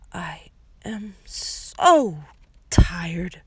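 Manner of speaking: a slow, menacing whisper; snarled whisper. A narrator's reading. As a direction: threaten him under your breath. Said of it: "Stefano snarled".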